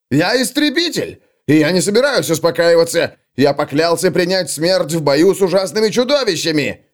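high, fervent declaration; defiant vow. Acted. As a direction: proclaim the oath passionately. Young slayer declares vow. (пылкая клятва истребителя)

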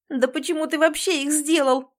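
high, loud and shaking; trembling outburst. A narrator's reading. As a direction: flare up, trembling. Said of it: "дрожа взвиваюсь".

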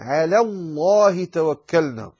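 thin L in على before heavy الله توكلنا; light lam. Shown as a demonstration. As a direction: keep على clear and light. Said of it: "رقق اللام".

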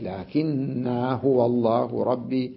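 لكن هو said with the vowel of لكن drawn out; lengthened vowel. Shown as a demonstration. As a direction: stretch the vowel of لكن, slowly. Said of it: "يمدها حركتين". (مد الألف في لكن ببطء)

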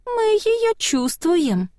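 put-on high, slow eerie child voice; slow high childlike whisper-voice; small spirit voice. A narrator's reading. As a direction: draw it out like a creepy little ghost. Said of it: "голосок".

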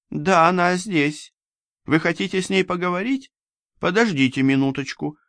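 высокий вежливый женский голос прислуги; спокойная, услужливая служанка, голос выше; Ирина Васильевна. A narrator's reading. (высокий учтивый голос служанки)

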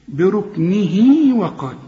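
بركنه وقال joined, final vowel of بركنه drawn out; connected recitation. Shown as a demonstration. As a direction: slowly link بركنه into وقال without stopping. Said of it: "علشان تقول عند الوصل".

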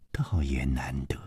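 breathless whisper, drifting off; whispered aside. Acted. Liu Wumei conceding to Chu Liuxiang in a whisper. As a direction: let it slip out as a whisper.

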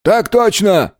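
crisp military response; paratroopers answering. A narrator's reading. Paratroopers answer their commander, eager and high-pitched. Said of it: "ответили в один голос десантники".

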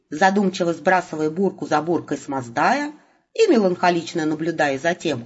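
ordinary delivery

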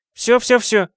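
high, giggling surrender; giggly Valentina. A narrator's reading. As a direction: back off with a giggle. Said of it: "хихикающая Валентина".

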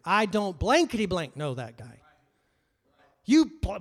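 loud cursing with the swear words blanked; cursing denial. Retold or imitated. Peter swearing at his accusers in a loud denial. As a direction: spit the denial out, cursing hard. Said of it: "he has to add some words in there".

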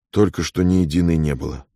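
plain reading voice

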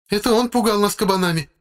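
high woman's voice pointing a finger; accusing woman. A narrator's reading. Wife denouncing the narrator to the captain, high accusing voice. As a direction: accuse him before the officer.

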